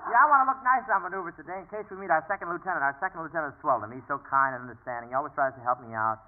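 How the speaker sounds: lightly acted, wishful daydreaming; dreamy daydream. Private daydreaming aloud about the kindly lieutenant, dreamy. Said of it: "All right, stop dreaming".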